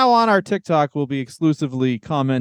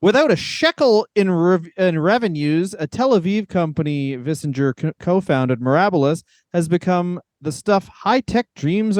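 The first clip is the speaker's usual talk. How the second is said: reading a quote. Real, not acted. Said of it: "here's one line".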